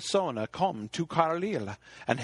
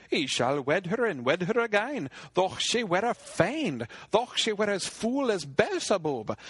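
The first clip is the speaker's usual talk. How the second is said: lightly raised, earnest knight's vow; a hint of a young knight pledging loyalty; 4 semitones higher than usual. Gawain vowing to his king, lightly raised and earnest. Gawain swears to wed her.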